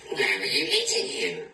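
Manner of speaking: high, eager owl question. Acted. Owl quizzing the mouse, in a high voice. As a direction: ask it as the curious owl.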